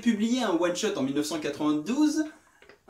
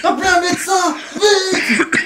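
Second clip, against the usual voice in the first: panicked shout for help, higher and louder; man down shout; 9 semitones higher, 9 dB louder than usual. Pretend. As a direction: yell for a doctor in alarm. Calling for help, partner collapsed.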